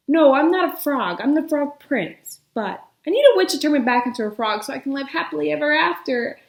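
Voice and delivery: fast, breathless rush; one long breath. Acted. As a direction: blurt it all without pausing. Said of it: "in one long breath".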